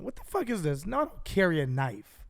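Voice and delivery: softened mock freak-out, pitch swooping down; retold outburst. Accused rider denying a knife to investigator, mock losing it. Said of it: "I literally, like, lose my shit".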